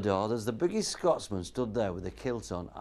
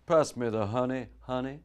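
put-on American accent. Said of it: "An American guy says".

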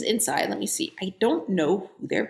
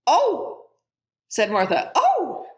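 higher, mock horrified cry; horrified gasp; 7 semitones higher, slower than usual. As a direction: recoil from the talking cat. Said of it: "white with horror".

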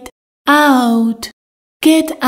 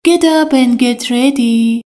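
slow model sentence; slower than usual. Shown as a demonstration. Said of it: "teacher models an English sentence".

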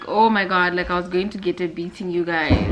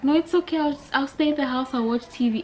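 put-on childish protest; 6 semitones higher, faster than usual. Child self pleading in story.

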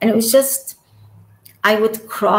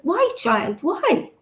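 Pope asking why; 6 semitones higher, slower than usual. Retold or imitated. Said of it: "And he goes".

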